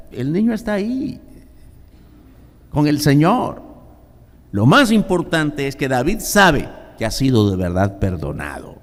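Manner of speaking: usual speaking voice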